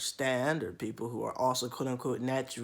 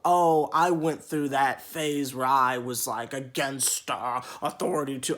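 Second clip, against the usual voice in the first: mock condescension; 4 dB louder than usual. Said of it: "I always get told".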